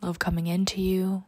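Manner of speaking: slow, soft meditation voice; guided meditation. Acted. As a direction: guide them into calm, often whispering. Leads a meditation.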